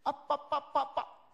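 mock toddler calling; toddler babble. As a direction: imitate a small child repeating first words. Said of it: "그 아이가 평생".

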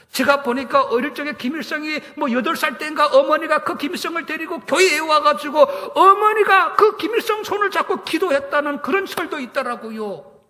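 ordinary delivery

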